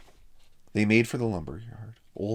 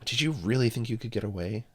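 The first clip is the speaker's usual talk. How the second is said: angry; 4 semitones higher, 4 dB louder than usual. Acted. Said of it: "asked Frank angrily".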